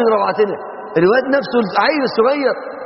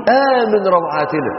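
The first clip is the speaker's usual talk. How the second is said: slow heartfelt refrain; slow drawn prayer; 5 semitones higher, much slower than usual. Acted. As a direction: stretch each word slowly.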